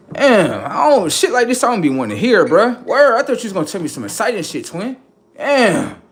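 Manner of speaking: high, loud disappointed ranting; loud mock disappointment; let down. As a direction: groan at a letdown. Disappointed by the news.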